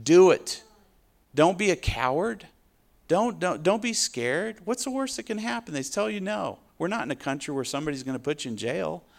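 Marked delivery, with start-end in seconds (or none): 0.0-6.6 higher, pressing challenge; preacher goading the timid to witness; urgent exhortation. Real, not acted. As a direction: push them to be brave. Preacher urging boldness.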